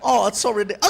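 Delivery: ordinary talk, nothing marked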